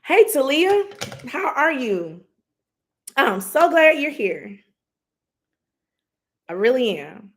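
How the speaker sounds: high, bright hello to a viewer; welcoming a viewer into the live stream, excited; excited greeting. Real, not acted.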